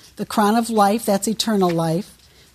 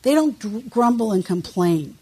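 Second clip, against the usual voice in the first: ordinary talk, nothing marked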